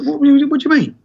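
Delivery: high, stunned what-what-what; stunned client. Retold or imitated. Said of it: "They go ... stunned".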